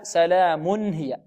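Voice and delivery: slow "سلام هي", n sounded fully before h; clear tanween. Shown as a demonstration. Teacher compares it with another word, clear n. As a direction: draw out "سلام" and land cleanly "mun-hiya". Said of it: "نقول هنا".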